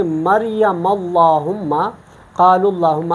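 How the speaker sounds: "اللہم" with a heavy, dark L; full lam. Shown as a demonstration. Teacher gives examples of the rule, heavy L in "اللہم". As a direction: recite slowly, filling out the L of "اللہم". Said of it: "تو اس کو ہم پر پڑھتے ہیں".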